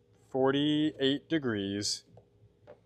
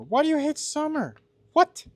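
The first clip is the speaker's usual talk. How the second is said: high-pitched, baffled outburst; incredulous; 14 semitones higher, 4 dB louder than usual. Real, not acted. Streamer to a viewer who hates summer, loudly incredulous. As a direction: shoot way up in pitch with disbelief. Mock outrage at chatter hating summer.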